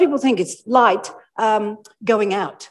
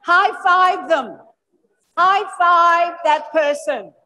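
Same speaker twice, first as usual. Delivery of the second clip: excited high calls; 8 semitones higher, much slower than usual. Real, not acted. Energizing audience high fives.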